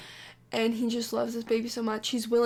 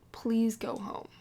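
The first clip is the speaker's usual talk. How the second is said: breathy whisper on "Please go home"; 5 dB quieter, slower than usual. Retold or imitated. Husband begs his lover to go home, whispering. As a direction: whisper it so nobody hears. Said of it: "And he said".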